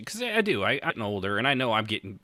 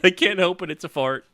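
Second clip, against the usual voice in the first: laughing retort; 9 semitones higher, 6 dB louder than usual. Retold or imitated. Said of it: "I said".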